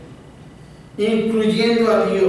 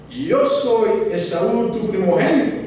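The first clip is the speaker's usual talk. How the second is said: acting as Esau; 5 semitones higher, 3 dB louder than usual. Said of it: "sus primeros renglones de su papel". (Jacob recitando su papel, lento y enfático)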